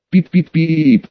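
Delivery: robotic beeping sound; bleeped out. Acted. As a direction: beep like a censor bleep. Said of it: "На странные звуки, издаваемые мандалорцем".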